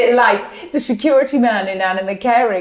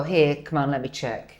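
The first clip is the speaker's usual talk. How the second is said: put-on gruff old doctor; 7 semitones lower, 6 dB quieter than usual. Imitating old school doctor.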